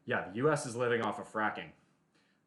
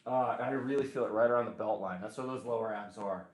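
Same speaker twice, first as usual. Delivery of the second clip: strained talk during leg raises; doing sit-ups. Real, not acted. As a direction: talk while abs burn. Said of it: "My abs are on fire already".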